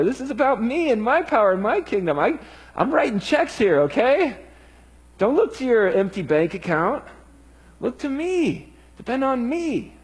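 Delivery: a hint of a frustrated but patient Lord; Jesus speaking. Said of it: "Jesus says".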